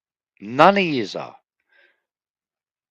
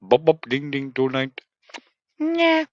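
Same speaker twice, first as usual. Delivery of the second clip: morphing voice; 2 semitones higher than usual. Shown as a demonstration. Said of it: "I can put any voice on it".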